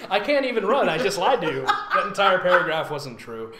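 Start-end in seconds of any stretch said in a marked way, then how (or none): 0.1-1.6 laughing parody. Retold or imitated. Voicing the narrator confessing.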